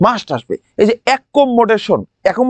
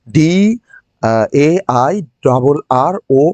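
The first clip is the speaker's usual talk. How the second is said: much lower, fumbling letters; confused student; 8 semitones lower, slower than usual. Pretend. Teacher mocking a student who forgot the spelling. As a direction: spell it haltingly as if lost. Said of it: "oh my God, আগে কোনটা পরে কোনটা".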